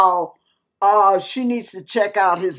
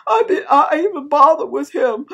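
imitated tearful regret, broken phrasing; tearful lament; 3 semitones higher than usual. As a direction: lament it like a crying woman. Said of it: "and she's crying".

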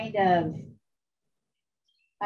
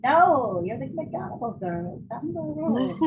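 higher, sing-song mock local; insistent Irish local; 4 semitones higher, slower than usual. Hitchhiker contradicting the tourist driver, imitated insistent local. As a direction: imitate a stubborn local who won't be corrected. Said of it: "They'll be like".

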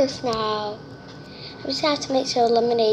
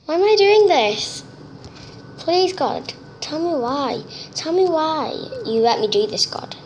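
scared pleading; 4 semitones higher than usual. Real, not acted. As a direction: beg God out of real fear. Scared player pleading with God.

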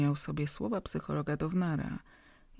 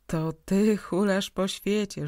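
cheerfully; 3 semitones higher, 5 dB louder, slower than usual. Acted. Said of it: "rzekł wesoło Szpanowski".

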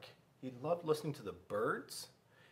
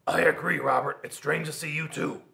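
teacher replies; 2 semitones higher, 8 dB louder than usual. Acted. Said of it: "Miss Kirby said".

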